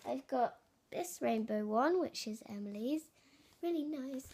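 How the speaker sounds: echoey room; talking in an echoey bathroom. Real, not acted. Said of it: "I sound so echoey in here".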